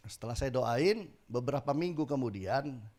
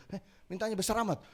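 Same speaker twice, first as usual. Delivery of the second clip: 1 mock surprise; 7 semitones higher, faster than usual. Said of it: "kaget dia".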